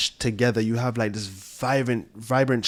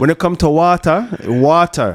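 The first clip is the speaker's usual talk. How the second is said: louder and higher, hyped exclamation; excited proclaiming; 6 semitones higher, 9 dB louder than usual. Real, not acted. Telling the host sparkling wine is his water, hyped shout. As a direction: sell it like a rallying cry.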